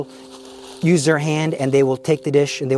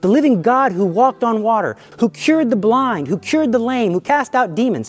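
impassioned, higher-pitched proclamation; driving, insistent fervor; fervent preaching; 5 semitones higher than usual. Shown as a demonstration. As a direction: preach it as a firm believer, phrase upon phrase. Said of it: "with the fervor of somebody who believes".

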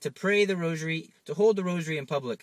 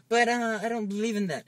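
higher, hesitant skeptic voice; high doubtful friend; 8 semitones higher than usual. Pretend. Preacher voicing a skeptical friend who won't pray.

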